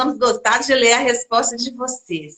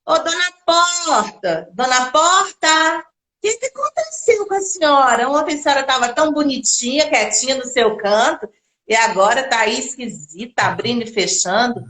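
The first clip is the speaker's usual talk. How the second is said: orange tree asking. Acted. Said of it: "que perguntou".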